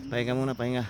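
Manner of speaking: out of breath after the climb; tired, breathless, quiet; panting. Real, not acted. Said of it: "Hiningal na muna".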